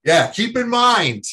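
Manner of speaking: high, loud laughing repeat; amused. Real, not acted. Guest laughs at forgetting a name, high and amused.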